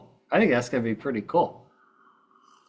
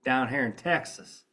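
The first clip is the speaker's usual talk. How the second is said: mock Texas drawl; slower than usual. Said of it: "a guy from Texas jokingly said".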